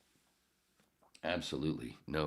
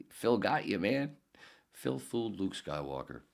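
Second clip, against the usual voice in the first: high-pitched gleeful razzing; teasing studio colleagues; 6 semitones higher than usual. Retold or imitated. Studio guys breaking it to the actor, teasing high voice. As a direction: crow it at the fooled actor. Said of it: "they all started laughing at him".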